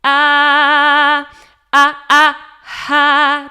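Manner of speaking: "ah" started with a crisp catch in the throat; sharp glottal start; glottal onset. Shown as a demonstration. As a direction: clean hard attack on "ah". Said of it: "with a glottal onset".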